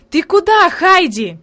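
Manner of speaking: put-on a boy's sudden high call; exclaiming. A narrator's reading. Boy calls out to Heidi passing by, startled exclamation. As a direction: call out in surprise to the girl. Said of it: "он воскликнул".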